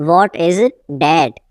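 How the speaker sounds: teacher setting "that" apart, falling; broken-up repeat. Shown as a demonstration. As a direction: pause before "that".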